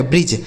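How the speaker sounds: "ब्रिज" ending directly in j, no d; low, falling "ब्रिज" with silent d; silent D pronunciation. Shown as a demonstration. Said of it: "क्या पढ़ा जाएगा?". ("ब्रिज", अंत में सिर्फ ज)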